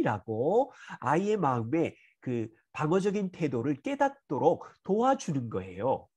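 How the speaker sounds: ordinary talk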